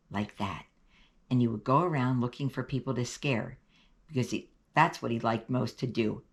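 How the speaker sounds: lightly voiced boy spinning a spooky tale; Reggie telling a ghost story. Boy telling a ghost story to his friend, lightly spooky.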